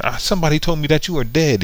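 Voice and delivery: father in pretend hysterics, fast and high; mock panicked yell. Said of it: "yelling and screaming".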